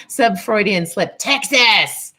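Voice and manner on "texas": excited exclaim. Real, not acted. Reads viewer's chat location.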